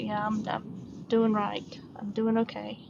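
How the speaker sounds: soft whisper, slow; a quiet whisper of reassurance; whispered aside. Real, not acted. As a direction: whisper it to yourself. Private aside to herself.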